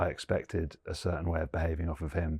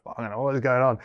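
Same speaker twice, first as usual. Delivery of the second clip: higher and louder, a frazzled dad losing it; exasperated outburst; 6 semitones higher, 5 dB louder than usual. Retold or imitated. Dad retelling losing his cool with his son, exasperated outburst. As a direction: blurt it out, at the end of your rope. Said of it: "I was like".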